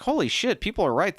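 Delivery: high-pitched amazed reaction; retold amazement. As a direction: relive being blown away by a book. Retelling reaction to reading comic.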